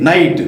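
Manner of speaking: "నైట్" with the vowel running straight into T; silent G. Shown as a demonstration. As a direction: say "నైట్" with no G before the T. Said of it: "జీ పలకలేదు".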